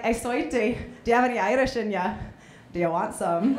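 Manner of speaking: put-on Irish-accented sleazy come-on; lightly voiced Irish creep; Irish scumbag. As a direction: try an Irish accent for a pickup line. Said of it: "if you were an Irish scumbag".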